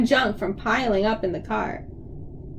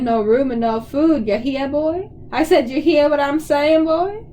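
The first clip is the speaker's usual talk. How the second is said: put-on a dad hamming up a Southern hillbilly accent, a touch only. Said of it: "Dad did an imitation of a hillbilly accent".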